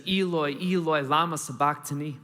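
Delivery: restrained imitation of a loud cry; mild retold shout. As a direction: call it out, but only moderately loud. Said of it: "he shouts out in a loud voice".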